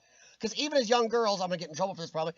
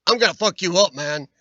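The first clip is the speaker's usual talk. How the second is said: mock Freeman scream; 9 dB louder than usual. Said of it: "Morgan Freeman screaming really fast".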